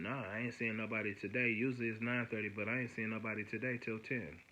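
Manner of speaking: understated, offhand brush-off; nonchalant. Retold or imitated. Probation officer turning him away till ten, mock nonchalant. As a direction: imitate an unbothered officer, lightly. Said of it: "she's in her nonchalant attitude".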